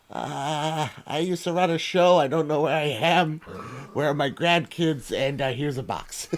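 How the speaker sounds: doddering, confused TV host impression, pitched slightly up; hammed-up confused elderly host; Barbara Walters. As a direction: play a befuddled old presenter who's lost. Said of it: "Barbara Walters is also gonna walk out".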